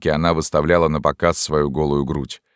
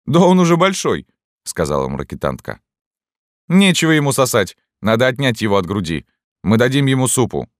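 high, loud hearty exclamation; exclaiming; 7 semitones higher, 4 dB louder than usual. A narrator's reading. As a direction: boom it out brightly, pitch up. Sutler woman exclaims about baby.

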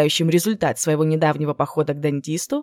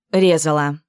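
gritted teeth. Acted. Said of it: "стиснув зубы, процедила Джен".

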